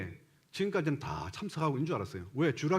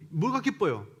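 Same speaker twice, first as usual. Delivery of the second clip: imitated child's challenge, pitched higher; child talking back; 4 semitones higher than usual. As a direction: act out a child disputing the parents. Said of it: "그렇게 얘기하더란 거예요". (부모에게 따지는 아이 흉내)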